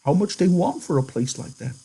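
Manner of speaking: high-pitched eager question; excited. A narrator's reading. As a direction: ask with hushed, high excitement. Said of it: "Candy went on excitedly".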